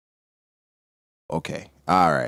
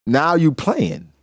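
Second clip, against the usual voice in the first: playing stretched out slowly and a bit higher; slow, drawn-out Blackbeard; 5 semitones higher, much slower than usual. Blackbeard taunting Thatch, slow and drawn out. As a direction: lean back and drag out playing. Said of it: "This nigga Blackbeard was like".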